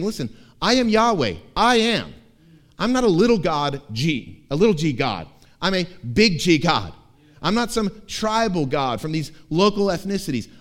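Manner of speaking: loud proclamation; God proclaiming himself to Jacob, loud; booming God voice. Acted. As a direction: declare it like the almighty. God proclaims his power.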